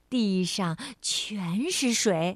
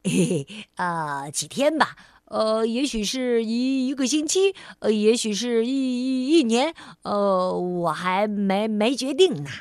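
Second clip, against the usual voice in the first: dithering stammer; 3 semitones lower, 3 dB louder than usual. Acted. Clumsy cousin dithering about staying.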